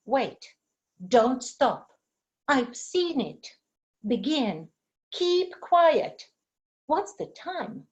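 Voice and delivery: each short sentence said with a clear beat on its stressed words; clear, deliberate stressed syllables for pupils; rhythm pattern demo. Shown as a demonstration. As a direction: tap out the stress pattern of every example. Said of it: "For example".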